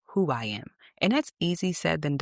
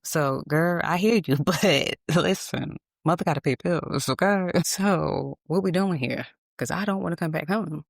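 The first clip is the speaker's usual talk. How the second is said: sassy retort; 3 semitones higher, 4 dB louder than usual. Retold or imitated. Retorting to mother.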